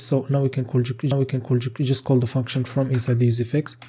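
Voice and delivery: breathless, winded talking; speaking while short of breath. Real, not acted. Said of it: "I'm already out of breath".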